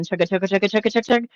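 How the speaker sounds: train chugging. Retold or imitated. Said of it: "if he is a train engine".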